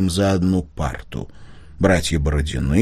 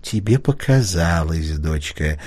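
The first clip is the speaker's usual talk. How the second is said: tender; 3 semitones lower than usual. A narrator's reading. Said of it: "ласково произнесла мама".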